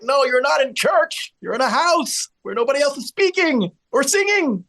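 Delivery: a hint of an annoyed housemate telling off grandma; mock scolding. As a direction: put the singer in her place. Scolding a loud singing grandma.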